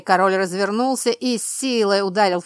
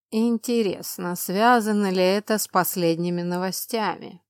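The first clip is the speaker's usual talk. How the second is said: thoughtful drawl. Acted. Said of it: "задумчиво протянул монарх".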